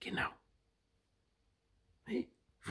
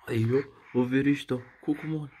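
bright, louder peekaboo call; higher, louder, playful; louder playful wer ist da; 6 semitones higher, 4 dB louder than usual. Real, not acted. Playing peekaboo with baby.

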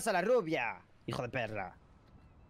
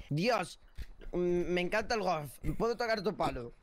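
suggestive demo line. Shown as a demonstration. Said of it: "son frases".

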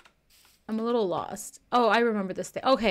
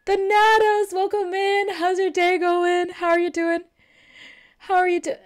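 bright, higher streamer hello; high-pitched greeting; 6 semitones higher, 3 dB louder than usual. Real, not acted.

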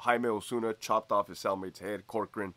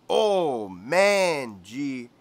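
higher, slow swooning coworker; Greñas voice; 3 semitones higher, much slower than usual. Retold or imitated. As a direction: linger dreamily on the tattoos. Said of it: "He goes".

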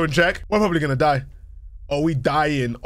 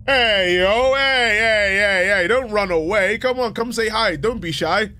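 calling out as a handy pal; 4 semitones higher, slower than usual. Acted.

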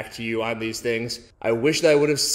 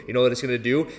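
ordinary talk, nothing marked

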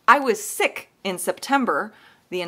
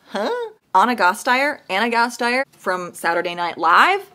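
puzzled viewer asking if it is the SNL star; imitating a baffled viewer. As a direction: play the confused viewer lightly. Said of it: "you're probably going".

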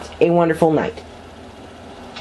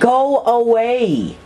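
drawn-out yell; 6 semitones higher, slower than usual. Real, not acted. Yelling at witch again.

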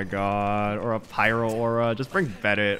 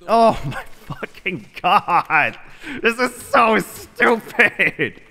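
high, loud, slow frustrated wail; exasperated outburst; 9 semitones higher, 4 dB louder, slower than usual. Real, not acted. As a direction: wail every word out in disbelief. Gamer exasperated at the game.

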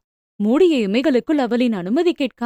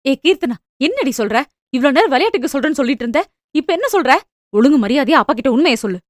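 a mother's sharp scolding, a little louder; fast, louder telling-off of a daughter; 3 dB louder, faster than usual. Acted. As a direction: rebuke the daughter, rising and hurried. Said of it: "மகளை அதட்டினார்".

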